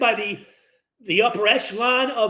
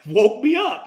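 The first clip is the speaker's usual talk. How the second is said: louder punch on woke me up; emphatic; 3 semitones higher, 4 dB louder than usual. Real, not acted. Player recalling coach's football to the head, emphatic. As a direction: hit it like the jolt.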